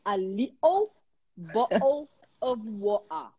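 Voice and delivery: Cockney, "bottle" with glottal stops, t dropped; a singer's Cockney. Retold or imitated. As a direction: swallow the t's in "bottle" like a singer. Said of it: "Aí chega a Adele e fala como".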